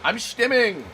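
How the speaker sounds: playful high voice; stimming. Real, not acted. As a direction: bounce the word up. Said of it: "you can't stop me from emoting".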